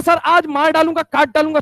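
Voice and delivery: student swearing revenge to his teacher, loud and angry; furious threat. Retold or imitated. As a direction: spit out the threat. Student vows violence.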